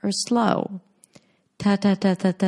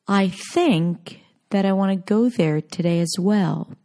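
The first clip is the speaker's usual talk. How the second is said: "think" and "go" long and stressed, function words reduced; native stress-timed rhythm. Shown as a demonstration. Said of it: "important words are stressed and long".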